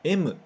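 "M" said as emu, katakana style; Japanese M. Shown as a demonstration. Teacher modelling the Japanese "M" for students. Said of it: "quando os japoneses pronunciam".

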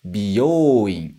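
"Byoin" as bi-yo-u-in, separate syllables; teacher models beauty salon word "Byoin" split; Japanese biyouin. Shown as a demonstration. Teacher contrasting salon word: "Byoin" as bi-yo-u-in. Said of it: "Mais uma vez".

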